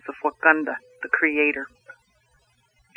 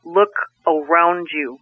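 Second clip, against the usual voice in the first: 1 slow booming voice; slower than usual. Acted. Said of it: "And it said again".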